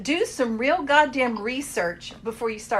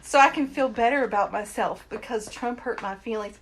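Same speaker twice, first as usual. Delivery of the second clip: high, whiny mock-crybaby voice, louder; mocking whiny snowflake; 5 semitones higher, 4 dB louder than usual. Mocking Trump critics as crybabies, high and whiny. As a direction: whine it out like a fragile crybaby. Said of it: "everybody's running around".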